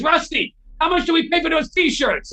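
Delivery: high, loud imitation of a summons; calling out. Guitar legend calls his son for the price, calling out. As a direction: call across to your son.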